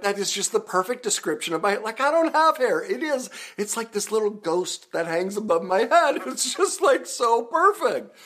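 high, loud, giggly gushing; cracking up at the perfect joke; laughing delight. Real, not acted. Host gushing over a commenter's ghost hair line, laughing. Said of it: "I just lost it".

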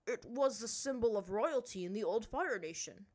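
a ruler explaining with weight; stern chief. A narrator's reading.

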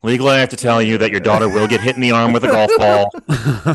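lightly voiced resigned realtor disclosure; a hint of a sighing estate agent; weary realtor. Realtor warning home buyers about golf balls, mock-weary. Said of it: "the realtor's just sighing".

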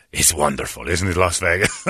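lightly imitated suave attendant, starting low; smooth, unruffled courtesy; beautiful speaking voice. Attendant unfazed by the hooker remark, beautifully spoken. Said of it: "He's got a beautiful speaking voice".

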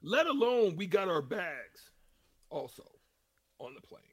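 choppy, breaking-up phone line; dropping out like a bad connection; buzzy glitchy call audio. Real, not acted. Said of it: "We lost you there for a second".

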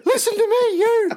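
very high squeaky mock voice; squeaky little voice. Mocking a small man scolding the empress, very high squeaky voice. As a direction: play a tiny man squeaking up at a tall woman.

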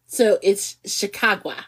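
slow mock Chicago accent, drawn-out Chicago vowels; Chicago said with a flat quacking Chicago accent; a hammed-up Chicago accent by a newsreader. Shown as a demonstration. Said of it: "it sounds like I'm quacking".

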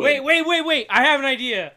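high, loud excited laugh. Real, not acted. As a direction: burst in with the idea. Excited sudden idea.

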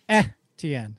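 Etienne as "eh-tee-EN"; careful "eh-tee-en" for Etienne; looked-up pronunciation. Shown as a demonstration. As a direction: start Etienne on "eh", then "tee-en". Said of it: "pronunciation E".

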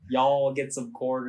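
slow, reluctant Southern drawl; a weak go at a Southern accent, drawn out; half-hearted Southern accent. Shown as a demonstration. Podcast guest asked for a Southern accent, half-hearted Southern drawl. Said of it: "can do a good Southern accent".

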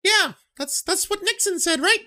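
high mock Nixon voice, loud on yeah; Nixon impression. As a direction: lampoon Nixon's delivery.

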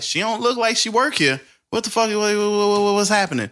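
high-pitched, stammering bewilderment; mock panic. Brother retelling his thoughts on seeing his sister there, mock panic. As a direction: squeal it in hammed-up confusion, tripping on words.

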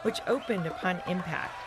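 animated, measured storytelling voice; story narration. A narrator's reading. Telling young listeners about Fetcher's adventure, story narration. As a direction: read it out clearly for young listeners.

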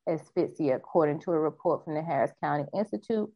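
news anchor delivery; news reporter voice. Acted. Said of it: "trying to get my news reporter voice on".

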